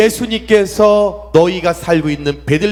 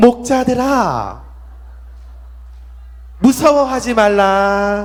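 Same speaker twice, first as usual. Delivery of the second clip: put-on sweet, pretty angel voice. A pastor voicing an angel speaking to shepherds: put-on pretty voice. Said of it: "예쁜 천사니까 목사님이 예쁜 목소리 해볼게요".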